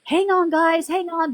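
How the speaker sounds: high mock livestreamer brushing off chat; mimicking the streamer telling her chat to hang on, high and mocking. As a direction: pitch it up to mimic her stalling viewers. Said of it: "kind of like".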